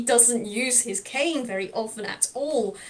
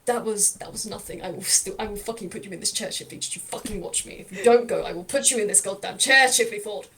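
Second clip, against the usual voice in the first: stubborn threat; 2 semitones lower than usual. Acted. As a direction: growl it, then push harder. Lau threatens Chifley again.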